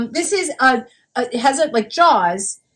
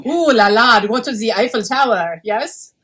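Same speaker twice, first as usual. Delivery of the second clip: put-on French accent; 3 semitones lower than usual.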